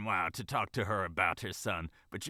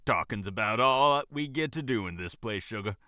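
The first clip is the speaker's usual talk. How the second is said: casual. Acted. Manager gossiping with the bunny, casually. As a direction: chat it out easily. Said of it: "The manager spoke casually".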